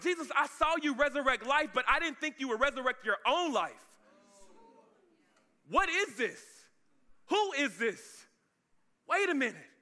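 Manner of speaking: high, bewildered questioning; acted amazement at the impossible; astonished disbelief. Acting astonished witness of the resurrection.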